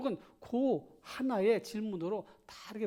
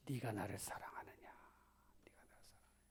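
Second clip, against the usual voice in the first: whispered question; 10 semitones lower, 16 dB quieter, much faster than usual. Acted. Jesus asking Peter softly.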